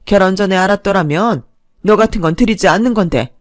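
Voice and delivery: mother-in-law berating her son's wife, loud and scornful; scolding mother-in-law. Acted.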